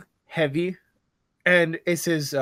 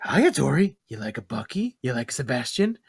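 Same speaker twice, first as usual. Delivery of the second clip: Pennywise voice; 3 semitones lower than usual. Retold or imitated. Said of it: "I can't take it, that voice".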